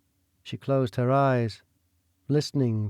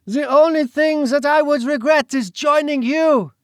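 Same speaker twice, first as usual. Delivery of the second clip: a high, loud scornful retort; defiant retort; 12 semitones higher, 5 dB louder than usual. Acted. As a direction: spit it back at him. Celine defiant.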